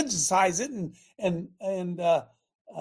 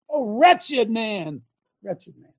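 wretched lament; much slower than usual. Acted. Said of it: "The Apostle Paul said".

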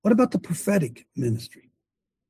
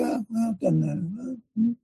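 dismissive; 6 semitones higher, 6 dB quieter, slower than usual. Retold or imitated. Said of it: "And we say".

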